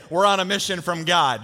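light Chicago accent, punchy. Shown as a demonstration. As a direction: say it like a Chicago Blues Brother. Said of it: "in your best Chicago accent".

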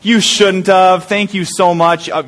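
slow, lightly voiced grateful wife; drawn out mock thanks; wife receiving flowers, slow mild gush; touched wife. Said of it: "And she said".

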